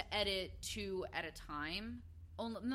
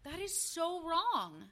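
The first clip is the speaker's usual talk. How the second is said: outraged; 7 semitones higher, slower than usual. Real, not acted. Outraged reaction to story.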